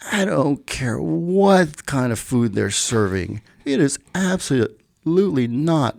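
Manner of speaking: retold anger held in check, each word pressed; toned-down anger. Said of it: "with more profanities than I'm saying it now".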